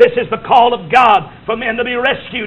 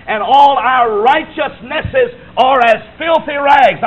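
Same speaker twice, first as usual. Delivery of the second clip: slow and loud, each word weighted; slow emphatic reading; 4 semitones higher, 4 dB louder, slower than usual. Real, not acted. Preacher to congregation: filthy rags, slow and heavy. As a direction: drag it out word by word. Preacher slowly stressing scripture.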